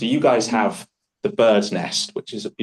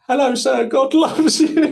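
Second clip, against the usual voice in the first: much higher, strained, overdone doorstep greeting; worn-out missionary; 4 dB louder than usual. Retold or imitated. Missionary after a thousand doors, strained mock greeting. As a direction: force out the line after endless doors.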